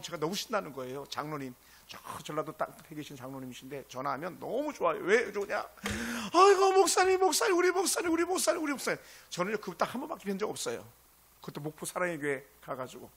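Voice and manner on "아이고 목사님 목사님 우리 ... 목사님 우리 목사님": Jeolla dialect elder. Retold or imitated. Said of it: "전라도 사투리 써가면서".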